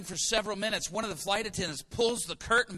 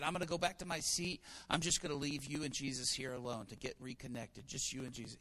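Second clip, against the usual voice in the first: hushed parting words; 6 semitones lower, 10 dB quieter than usual. Retold or imitated. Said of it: "I said".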